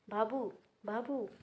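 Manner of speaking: slow, drawn-out crying call of the name; mother weeping for her son, slow; collapsing sob. A narrator's reading. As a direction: let the name break as she sinks down. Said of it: "గట్టిగా ఏడుస్తూనే".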